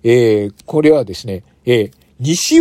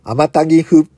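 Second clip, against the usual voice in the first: backwards speech; 4 semitones higher, 5 dB louder, slower than usual. Shown as a demonstration. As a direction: say it flatly so it can be reversed. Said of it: "もう一回言ってみましょう".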